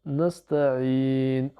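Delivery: "nasta'in" with a drawn-out ii before the n; slow "nasta'in", final vowel held; long final i. Shown as a demonstration. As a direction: stretch the last syllable of "nasta'in". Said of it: "Allongé par la voyelle longue ya".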